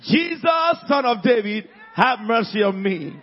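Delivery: loud pleading cry. Retold or imitated. Blind man calls to Jesus for mercy, loud cry. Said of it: "shouted in a loud voice".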